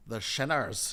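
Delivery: put-on a touch of Ulster accent on the Shinners; light Ulster accent; Paisley's Shinners. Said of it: "what he used to call".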